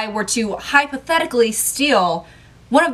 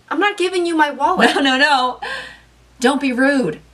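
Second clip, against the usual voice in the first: outraged protest; 6 semitones higher than usual. Acted. Waiter refusing, outraged.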